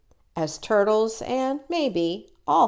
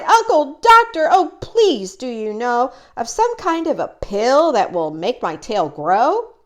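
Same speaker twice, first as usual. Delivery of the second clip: high, loud pleading cry; high eager plea to her uncle; crying out pleadingly; 4 semitones higher, 4 dB louder than usual. Acted. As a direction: beg the doctor urgently. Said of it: "she cried".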